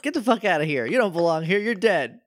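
half-joking, indignant scolding; mock outrage. Real, not acted. Yelling at returning villain.

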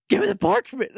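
high, loud mock demand through a laugh; hammed-up villain ordering the parchment. Villain demanding the parchment from Mac, in a hammed-up high shout.

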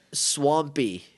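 blocked nose; talking through a stuffy nose; stuffed-up nose. Real, not acted. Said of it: "I wish I wasn't so stuffed up".

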